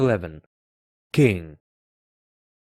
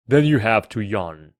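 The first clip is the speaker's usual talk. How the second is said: lightly voiced king, louder; commanding king; 7 dB louder than usual. A narrator's reading. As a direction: hand down a royal order.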